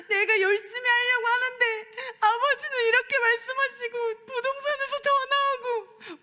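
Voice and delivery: high, loud crying complaint; tearful complaint. Retold or imitated. Pastor retelling her tearful prayer to God, crying high. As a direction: wail it out in hurt. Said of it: "서러운 마음이 막 밀려드는 거예요".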